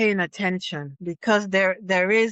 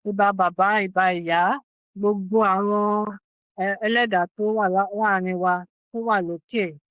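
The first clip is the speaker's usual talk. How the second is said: measured, reverent closing prayer; an elder's spoken blessing; Yoruba prayer; faster than usual. Real, not acted. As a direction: pray aloud in Yoruba, phrase by phrase. Elder prays in Yoruba to close.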